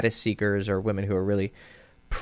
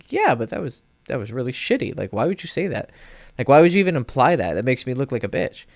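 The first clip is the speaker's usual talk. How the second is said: indignant retelling; 4 semitones higher, 4 dB louder than usual. Retold or imitated. Confronting teammate over a put-down.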